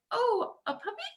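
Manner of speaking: high, soft, laughing "oh, a puppy?"; delighted surprise. Acted. Kid finally discovering the puppy, delighted and laughing. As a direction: let the penny drop with a giggle.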